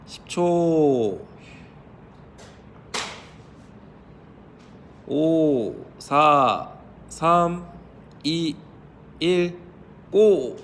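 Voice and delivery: slow counted-off seconds to go; countdown. Real, not acted. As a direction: call out the final seconds.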